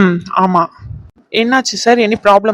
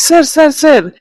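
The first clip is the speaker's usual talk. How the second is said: higher-pitched, insistent calling out; urgent protest; 7 semitones higher, 4 dB louder than usual. Acted. Hotel worker interrupting a troublemaking guest, urgent protest. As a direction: cut in urgently to stop him.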